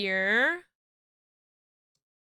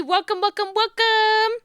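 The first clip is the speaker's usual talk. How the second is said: rising, louder welcomes; excited welcome; 10 semitones higher, 4 dB louder than usual. Real, not acted. Streamer welcoming the raiders, rising and excited. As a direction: build each welcome higher.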